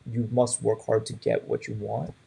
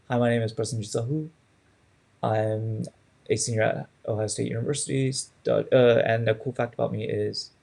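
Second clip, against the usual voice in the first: rushed self-intro. Shown as a demonstration. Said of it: "it sounded like I was rushing through it".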